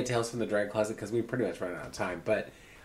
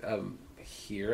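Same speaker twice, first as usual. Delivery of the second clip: low, soft, hesitant; quiet, retold admission; sheepish reply; 4 semitones lower, 11 dB quieter than usual. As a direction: answer small and awkward.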